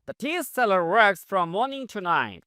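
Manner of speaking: very slow, word by word; spaced-out classroom read; slow model reading. Shown as a demonstration. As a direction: dictate each English word slowly for learners. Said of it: "slow model sentence".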